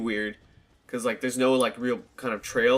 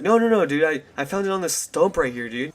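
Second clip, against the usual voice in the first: defensive protest; 4 semitones higher, 3 dB louder than usual. Retold or imitated. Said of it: "And he's like".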